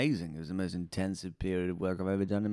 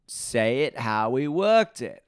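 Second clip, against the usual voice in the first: insistent coaching; 3 semitones higher, 5 dB louder, slower than usual. Retold or imitated. Acted coach instruction to actor.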